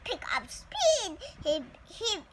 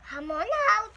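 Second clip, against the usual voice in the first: encouraging; 5 semitones higher, 5 dB louder than usual. Acted. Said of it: "Papa encouraged".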